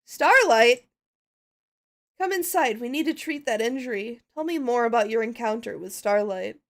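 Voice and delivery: lightly voiced pony, alarmed then kind; a hint of a caring pony host; pony host calling in a hurt friend; pony character. Plays pony character greeting friend.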